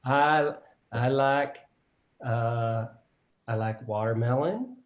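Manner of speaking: put-on Southern Mississippi accent. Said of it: "I'll do my best".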